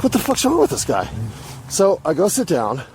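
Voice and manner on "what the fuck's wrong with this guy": high, baffled exclamation; can't believe this guy, pitched way up; incredulous thought. Retold or imitated. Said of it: "I'm like".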